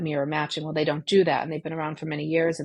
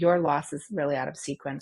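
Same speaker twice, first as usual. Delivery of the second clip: ordinary talk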